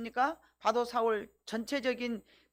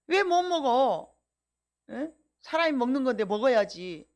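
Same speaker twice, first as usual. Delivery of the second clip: indignant retort; 4 dB louder than usual. Acted. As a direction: throw the question back in protest. Acted church quarrel over food. (반박하듯 느리고 크게 따지는 말투)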